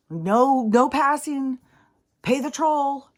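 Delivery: mock guard shout. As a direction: play a bossy guard turning you away. Mocking border guard.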